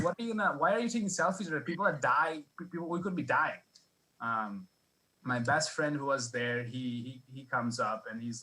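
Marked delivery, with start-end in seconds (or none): 0.0-3.6 exasperated outburst. Retold or imitated. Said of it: "I'm like".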